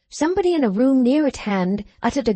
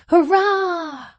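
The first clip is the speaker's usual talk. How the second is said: a high, joyous cheer; crowd cheer; 9 semitones higher than usual. A narrator's reading. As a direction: cheer for the newlyweds.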